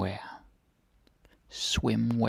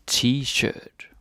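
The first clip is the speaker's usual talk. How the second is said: T-shirt with a Danish accent, higher; 4 semitones higher than usual. Shown as a demonstration. Teacher modelling T-shirt for learners, Danish accent. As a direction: give T-shirt a slow, careful Danish pronunciation. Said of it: "say it with the Danish accent".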